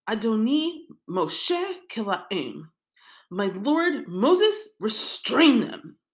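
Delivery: slow, insistent plea to restrain them; pressing his master to act; urgent plea. Retold or imitated. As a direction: Yehoshua urging Moshe, slow and insistent. Yehoshua begs Moshe to act.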